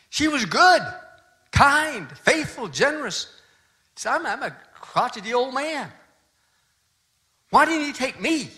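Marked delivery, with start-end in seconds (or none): 0.1-3.2 high, pleading list of her virtues; grieving husband, pitch high and strained; anguished praise. Retold or imitated. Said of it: "He was just furious with God". 4.1-8.5 grieving anger. Retold or imitated. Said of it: "He was just furious with God".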